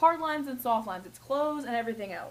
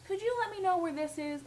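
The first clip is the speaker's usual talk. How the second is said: polite request; 6 semitones higher than usual. Retold or imitated. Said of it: "I'd say".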